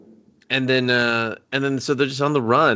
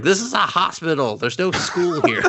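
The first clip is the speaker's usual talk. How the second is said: deadpan nurse; 7 semitones higher than usual. Retold or imitated. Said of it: "She's like".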